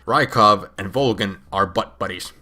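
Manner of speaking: ordinary talk, nothing marked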